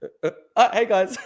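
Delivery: stammering mock hello through a laugh; Macron's flustered greeting, laughing. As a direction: stutter the uhs, then a laughing hey guys. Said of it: "he goes".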